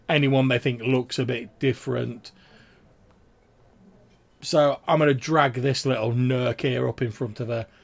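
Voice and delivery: chatty guard sharing gossip with a gentleman; gossipy guard. Acted. GM voices guard at length.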